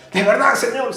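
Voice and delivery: high, surprised "¿De verdad, señor?"; surprised juggler. Retold or imitated. Young juggler thanking the man, surprised and high. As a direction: voice jumps up in disbelief.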